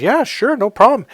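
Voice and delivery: light, high-pitched acted "happy to help"; breezy agreement. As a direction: agree readily in a lifted voice. Acted cheerful agreement to job.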